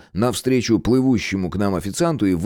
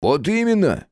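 much higher, emphatic agreement; voiced woman Irka; 10 semitones higher than usual. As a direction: seize the point. Irka, or Gena's retort.

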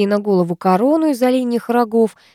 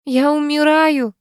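higher, slowed wail of a dying woman; crying out; 7 semitones higher, 3 dB louder, slower than usual. Acted. Woman in labour crying out she is dying. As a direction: cry out in agony. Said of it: "кричит темноволосая".

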